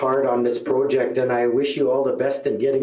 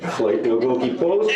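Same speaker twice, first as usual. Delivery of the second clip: laughing. Retold or imitated. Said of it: "it's like".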